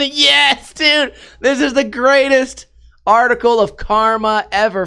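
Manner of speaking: high-pitched triumphant crowing; gleeful excitement. Real, not acted. Reader reaching the karma twist, gleefully excited. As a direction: build into a delighted cheer, stretching the key word. Delighted by karmic twist in article.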